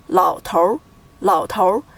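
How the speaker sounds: "老头儿" as two syllables, lao tour; erhua pronunciation. Shown as a demonstration. Teacher modelling the word for learners, "老头儿" with erhua. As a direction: fold 儿 into 头 when saying "老头儿". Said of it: "the sounds of these two characters are combined".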